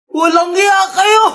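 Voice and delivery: slow, shouted insult; fed-up woman yells at the crowd; angry shout. Acted. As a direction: hurl it at them in fury. Angry outburst at neighbours.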